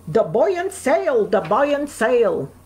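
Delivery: mimicking the Dublin cabbie's Irish lilt, repeated; Irish taxi driver. A newcomer quotes her taxi driver's advice in a light Irish accent.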